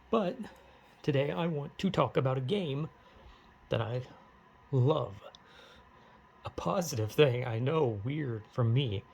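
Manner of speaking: pausing oddly between phrases; odd halting delivery. Real, not acted. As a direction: break it up with awkward, deliberate pauses. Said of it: "why I'm talking like this".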